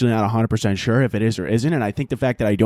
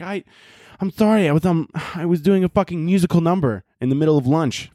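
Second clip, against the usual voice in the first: lightly voiced little orphan, pitched up at first; mock apology; 3 semitones higher than usual. Orphan girl explaining skipped chores, mock apologetic. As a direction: make a hammed-up, higher-pitched excuse.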